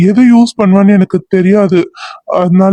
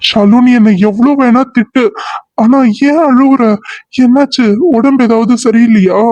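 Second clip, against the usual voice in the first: anxious pleading; 4 semitones higher than usual. Acted. Worried plea to crying girl.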